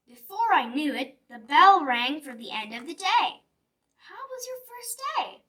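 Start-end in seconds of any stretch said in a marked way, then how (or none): 4.0-5.4 mom voice. Acted. Mom asks her child.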